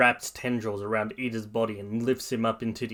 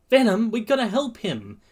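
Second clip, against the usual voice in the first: high, raised urgent voice; urgent plea; 11 semitones higher, 5 dB louder than usual. Acted. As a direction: urge your partner to act. Boy urging his partner to help.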